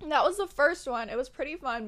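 talking while eating; words around a bite; mouth full. Real, not acted. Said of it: "I'm eating".

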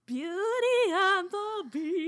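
slow, high robotic announcer; sing-song robot ride announcement. Pretend. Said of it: "I don't wanna hear this robot voice".

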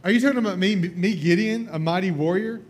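high, loud disbelief; can't believe he means me; incredulous Gideon. Acted. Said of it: "And Gideon's like".

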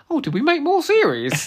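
high, loud mock exec voice; airy, oblivious boss voice; mocking Michael Grade. Imitating the BBC boss, hammed-up high and loud. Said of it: "He was like".

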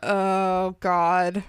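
normal talking voice

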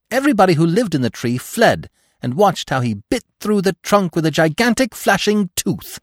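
high, loud squirrel telling a horror tale; squeaky storyteller reliving the dread; frightened squirrel. A narrator's reading. Squirrel telling Bambi how the oak fell, high and dramatic.

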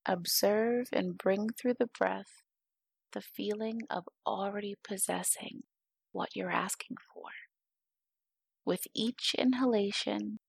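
guided meditation. Acted. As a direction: guide the listener unhurriedly into calm.

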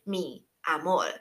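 mi amor spoken slowly, each syllable clear; slow teaching demo. Shown as a demonstration. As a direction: model mi amor for learners. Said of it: "所以".

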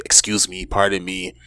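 soft, polite mock apology; quietly voiced courtesy; soft politeness. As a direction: imitate a gentle, well-mannered passerby. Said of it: "they think we're so soft".

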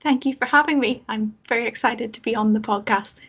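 thanks in a put-on posh Northern Irish accent; lightly poshed-up Northern Irish accent; poshest accent. Real, not acted. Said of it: "Putting on your poshest, poshest accent there".

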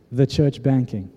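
mock-dismayed son, dragging it out; retold disbelief. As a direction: repeat it slowly, as if let down. Son balks at dad's errand.

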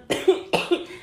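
sick cough; coughing fit. Real, not acted. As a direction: cough hoarsely. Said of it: "me ando muriendo".

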